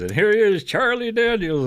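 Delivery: high, loud imitated show announcer; stage announcer. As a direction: belt out the star's introduction, stretching the name. Voicing the announcer introducing the star.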